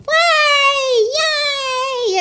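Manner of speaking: high excited cheer. Real, not acted. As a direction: shout it with joy. Cheering about going home.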